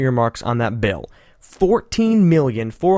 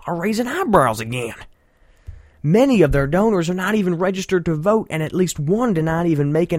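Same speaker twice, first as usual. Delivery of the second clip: a lightly voiced mock Southern politician, pitched a bit higher; John Edwards voice; 4 semitones higher than usual. Host mocking a candidate's press statement, a light John Edwards impression. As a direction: read it as a hint of a grandstanding John Edwards. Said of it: "Let me read this in my, uh, John Edwards voice".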